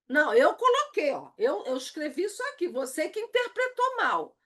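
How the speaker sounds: self-justifying protest, rising high at the end; acted-out defensive excuse, pitch climbing. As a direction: push back as if wrongly blamed. Acted defensive reply to a misreading.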